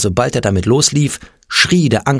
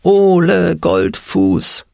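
crowd cheer; 9 semitones higher, much slower than usual. A narrator's reading. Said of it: "das Publikum rief".

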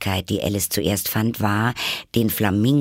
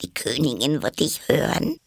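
higher, hushed, alarmed warning; frightened whisper; 5 semitones higher than usual. Acted. Rabbit fears the Queen overhears, frightened whisper. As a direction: warn under your breath, scared. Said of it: "flüsterte das Kaninchen sehr erschreckt".

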